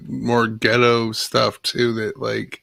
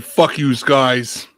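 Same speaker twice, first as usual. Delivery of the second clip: slow mock New York swearing; New York accent; slower than usual. Joking about New York City talk, New York accent. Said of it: "like a New York City thing".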